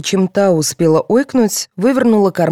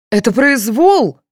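loud, high, drawn-out protest; flaring up; 8 semitones higher, 6 dB louder, slower than usual. A narrator's reading. Mother protesting to the policeman, flaring up. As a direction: erupt in indignation. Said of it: "взвилась Яковлева".

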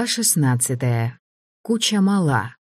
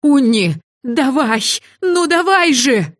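much higher, loud desperate howl; howling plea; 10 semitones higher, 5 dB louder, slower than usual. Acted. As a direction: beg the magic to work, howling. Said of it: "взвыла я".

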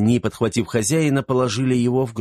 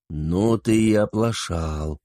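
reproachful; slower than usual. Acted. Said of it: "укорял он его".

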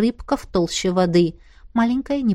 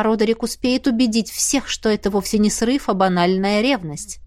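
ordinary delivery

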